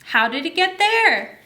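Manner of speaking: a touch of delighted puzzlement; puzzled astronaut. Acted. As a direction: astronaut finding his cupcake box, mildly surprised. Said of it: "it says".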